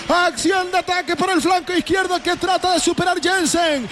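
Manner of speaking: goal commentary. Acted. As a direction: scream the goal like a radio commentator.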